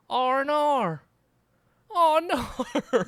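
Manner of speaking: high, loud Australian "oh no"; Australian accent. Shown as a demonstration. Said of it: "that's like an Australian person saying".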